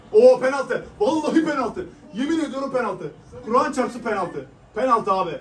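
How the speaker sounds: high, loud, laughing disbelief; excited laughing shout. Real, not acted. Fan laughs and shouts that it's a clear penalty.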